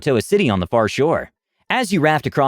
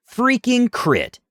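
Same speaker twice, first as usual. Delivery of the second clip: disbelief; 11 semitones higher, much slower than usual. Real, not acted. Unlucky crit roll.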